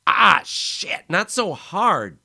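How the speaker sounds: high, loud yelp of pain; pained cry. Acted. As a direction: cry out as teeth sink in. Bitten, cries out.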